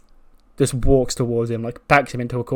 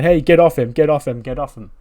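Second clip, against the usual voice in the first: acted urgent yelling; urgent shout; 3 semitones higher, 7 dB louder than usual. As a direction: shout them off a friend in a retold rush. Acted rescue, rushing in.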